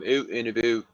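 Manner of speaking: imitated Canadian "oot and aboot"; Canadian accent. Guest admiring how Canadians talk, imitated Canadian accent. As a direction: say it with rounded Canadian vowels. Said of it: "their oot and a boot accent".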